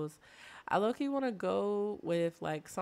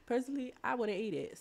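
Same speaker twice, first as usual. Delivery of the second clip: "personally" laughed out, pitched up; laughing; 5 semitones higher, faster than usual. Shown as a demonstration. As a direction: laugh through "personally, I wouldn't eat it". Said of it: "repeated with a laugh".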